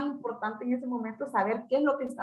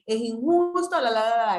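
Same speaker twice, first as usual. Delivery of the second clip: mock teen complaint; 4 dB louder than usual. Teen complaining about denied permission.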